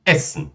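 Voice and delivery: "Essen" with a short, quick first vowel. Shown as a demonstration. Teacher repeats the example for students, "Essen" with short vowel. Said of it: "Pronúncia curta".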